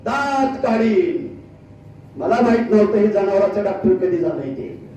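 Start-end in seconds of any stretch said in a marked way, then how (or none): 0.1-1.4 very slow, stretched-out mock threat; slow incredulous echo of a threat; mocking repeated threat. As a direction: repeat it for the crowd, drawing out each word. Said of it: "काय म्हणले?".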